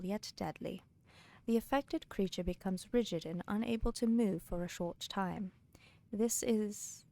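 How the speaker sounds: lightly put-on British accent for reading the book aloud; mock British accent. Streamer reads a Skyrim book to chat in a light mock British accent. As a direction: read the lore like a mock Brit, understated. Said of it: "that was a great accent".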